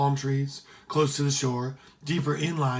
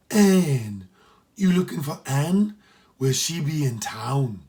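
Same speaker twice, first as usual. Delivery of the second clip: put-on startled by the boy's request; surprised matron; 6 dB louder, slower than usual. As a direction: housekeeper in loud disbelief.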